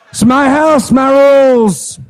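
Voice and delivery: put-on drunk dad.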